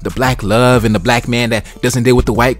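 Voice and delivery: mocking pro-black woman. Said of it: "acting like they so pro-black".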